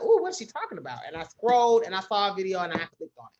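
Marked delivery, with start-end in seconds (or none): 0.0-1.0 higher, louder gossipy ooh; lightly voiced, curious about the tea; nosy curiosity. Scrolling the thread, nosy and curious. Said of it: "I was like".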